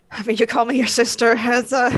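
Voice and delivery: awkward words breaking into a small laugh; nervous laugh. Acted. Answering someone who calls them sister, nervous laugh. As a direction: trail into a nervous little laugh. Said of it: "kind of laughs nervously".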